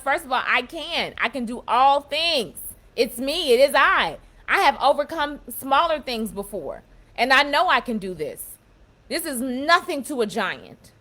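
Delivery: loud, firm self-pep talk; confident self-talk. Retold or imitated. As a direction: pump yourself up before the gym. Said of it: "that's how I talk to my own self".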